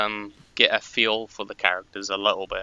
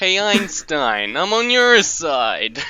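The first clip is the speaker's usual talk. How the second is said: high, loud, belted, swooping character voice; 8 semitones higher, 6 dB louder than usual. Asked whether they can imitate a singer, answering in that singer's voice. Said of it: "Can you do a singer?".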